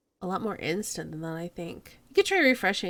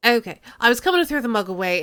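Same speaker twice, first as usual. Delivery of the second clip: Cockney; 2 semitones higher, 7 dB louder, much faster than usual. Acted.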